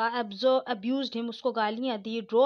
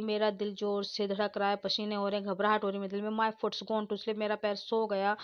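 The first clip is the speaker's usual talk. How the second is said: softer, worn-out complaining; lightly voiced exhausted suitor; 2 semitones lower, 4 dB quieter than usual. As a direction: speak like a man barely standing. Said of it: "Lumo enters exhausted".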